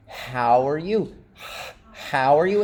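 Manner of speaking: "How" begun with an audible puff of air. Shown as a demonstration. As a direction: breathe out the H of "How" before the vowel. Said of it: "just a little puff of air".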